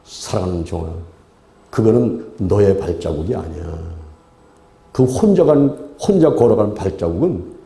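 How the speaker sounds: low, measured divine voice; the Lord answering. Acted. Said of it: "그랬더니". (낮고 차분하게 대답하시는 주님 목소리)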